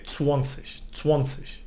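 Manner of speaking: zwanzig as swonzig; soft Austrian zwanzig; Austrian pronunciation. Shown as a demonstration. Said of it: "in Austria they would say".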